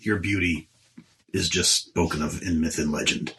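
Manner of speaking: smooth flatterer. Acted. Player flatters in character.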